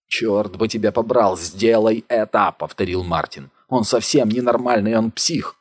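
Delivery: loud cursing demand; angry shout. Acted. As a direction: curse and push him to act. Martin curses, urging Gunnar.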